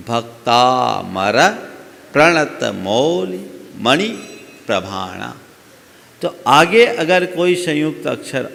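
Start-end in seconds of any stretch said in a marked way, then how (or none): 0.1-5.4 very slow, each syllable drawn out; slow demo recitation. Shown as a demonstration. Teacher demonstrating the verse's pronunciation, slowly. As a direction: recite it syllable by syllable, leaning on the stressed vowels. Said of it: "तो आपको बोलना होगा".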